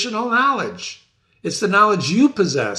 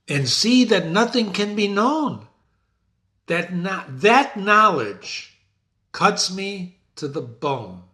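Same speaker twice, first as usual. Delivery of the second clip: dramatic reading; slower than usual. Shown as a demonstration.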